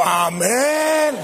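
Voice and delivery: overly forceful, drawn-out amen; mock forceful amen. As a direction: imitate an over-eager amen. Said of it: "lo dijo con demasiada fuerza".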